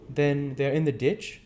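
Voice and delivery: high, loud and slow question; Harry's voice. A narrator's reading. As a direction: ask it urgently, weighing each word. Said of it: "said Harry".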